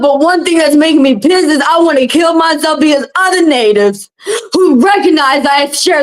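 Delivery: venting with a catch of real crying in the voice; near tears. Real, not acted. Speaking to her viewers about the other natives, on the edge of crying. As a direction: let the tears come through as you push on.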